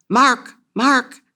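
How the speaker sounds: high, loud cry of his name; frantic shout. Acted. Wife shaking her unresponsive fiancé, frantic shout.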